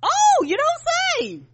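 high, slow mock amazement; sarcastic. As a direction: drag it out, dripping sarcasm. Mock surprise at obvious news.

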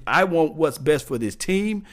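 a touch of an indignant player; demanding player. Retold or imitated. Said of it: "What you say is".

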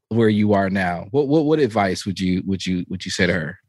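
normal talking voice

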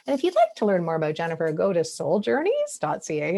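rising, questioning tune through the plug. Retold or imitated. Host reading out the web plug, mildly questioning. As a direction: say it like you doubt it, lifting the ends. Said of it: "they would say it as a question".

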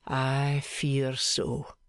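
slow and grave; a heavy, slow "I fear so". Acted. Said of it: "shook his head gravely and rejoined".

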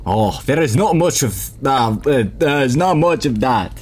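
put-on a shaky, slipping French accent for the mayor; lightly faked French accent; French accent attempt. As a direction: try a French accent, drifting toward Russian. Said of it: "because I can't do a French accent".

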